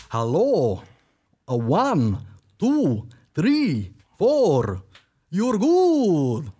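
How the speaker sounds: hammed-up Dracula, pitch swooping up on each word; lightly voiced count, drawing the words out; mock Dracula. Playing Dracula to a random dude, sliding up and down. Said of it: "this is Dracula".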